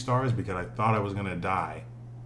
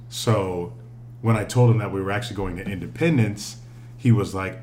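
ordinary delivery

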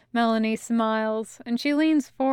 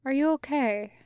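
genuine care; 3 semitones higher than usual. Acted. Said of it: "with genuine care in her voice".

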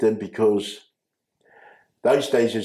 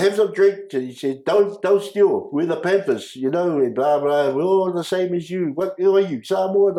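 Lucky's broken English; 8 semitones higher than usual. Retold or imitated. Lucky explaining the Panthers to the kids, mock broken English.

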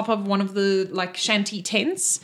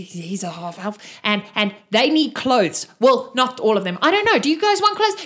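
rising, loud rambling; nervous chatty NPC; flustered babble; 3 dB louder than usual. Acted. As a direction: stumble over the introductions.

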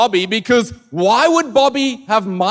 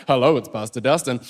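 pastoral voice; 7 semitones lower than usual. Retold or imitated. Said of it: "I put on my best pastoral voice".

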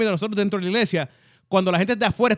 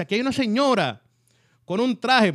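lightly voiced preacher calling out a woman; a hint of a preacher at the pulpit; imitating preacher; 4 semitones higher than usual. The preacher calling out a woman in the crowd, lightly voiced preacher. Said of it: "sale el predicador y dice".

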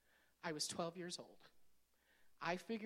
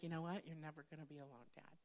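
tender reassurance; 3 semitones lower, 5 dB quieter than usual. Retold or imitated. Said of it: "And I'm like".

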